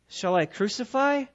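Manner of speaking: goading question, rising high on 'king'; provoking. Acted. Pilate goading the Jews again, provoking. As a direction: stick it to them with 'your king'. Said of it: "See, he's doing it again".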